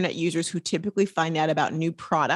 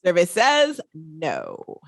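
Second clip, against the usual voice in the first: game show host; much slower than usual. Pretend. Repeating game show catchphrase.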